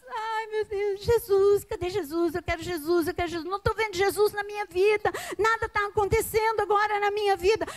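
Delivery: mock weeping plea. Preacher voicing Mary Magdalene weeping at the tomb, tearful. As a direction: voice Mary crying for Jesus, a touch hammed. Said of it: "chorando, aos prantos".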